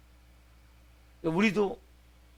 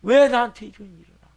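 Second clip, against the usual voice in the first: loud, high acted "why me"; furious protest at fate; angry outburst; 6 semitones higher, 12 dB louder than usual. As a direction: hurl the question out in outrage. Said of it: "화를 내는 거죠".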